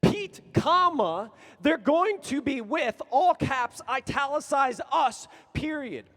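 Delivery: loud, slow, every word stretched; slow emphatic shout. Retold or imitated. The friend insisting by text, loud and slow.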